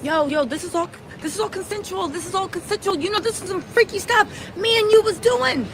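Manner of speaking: mock placating protest; imitated brush-off. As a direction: wave off her complaint as him. Retold man brushing off her accusation.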